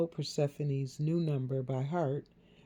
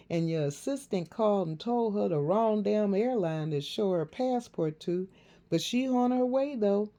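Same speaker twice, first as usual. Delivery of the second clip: mother voice; 6 semitones higher, 3 dB louder than usual. A narrator's reading.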